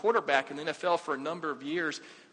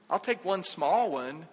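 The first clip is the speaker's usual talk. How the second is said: slow wry aside; slower than usual. Shown as a demonstration. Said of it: "I don't like the word many".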